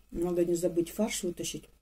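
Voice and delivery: talking while chewing; speaking between bites; mouth full, chewing. Real, not acted. Seen 3: Bites the crisp baked piece at 0.4–1.9, then talks while chewing.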